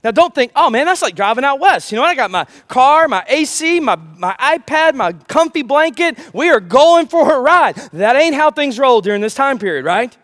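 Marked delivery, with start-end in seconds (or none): 0.5-7.8 louder, higher, carefree road-trip voice; breezy mock excitement. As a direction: play a lazy believer hyped for an easy drive. Imagined churchgoer dreaming of comfy trip.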